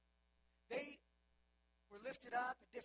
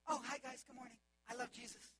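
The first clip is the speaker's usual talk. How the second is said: fake sweet greeting; 2 semitones higher, 5 dB louder than usual. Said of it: "They're not like".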